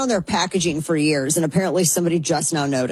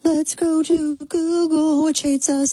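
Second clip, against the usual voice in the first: sarcastic; 10 semitones higher than usual. Acted. Sarcastic aside, high put-on.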